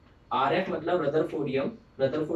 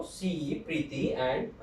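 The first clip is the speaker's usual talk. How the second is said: slow prompting; 3 semitones lower, 6 dB quieter, much slower than usual. Shown as a demonstration. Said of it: "मेरे साथ revise करो".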